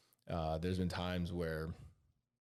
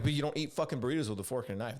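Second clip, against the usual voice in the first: louder, higher and fast mock outrage; indignant protest; 6 semitones higher, 4 dB louder, faster than usual. Arguing with the waitress about burritos, fast indignant protest. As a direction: insist as if it's obvious.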